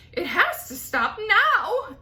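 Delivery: high, loud frantic yell. Acted. Aunt yelling at the peach to stop. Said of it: "Aunt Spiker yelled".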